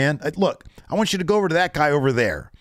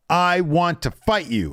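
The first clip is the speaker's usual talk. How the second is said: mock threat; 6 semitones higher, slower than usual. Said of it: "he's like".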